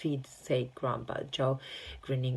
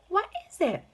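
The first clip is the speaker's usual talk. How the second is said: excited cry; 8 dB louder than usual. A narrator's reading. Excited child asks.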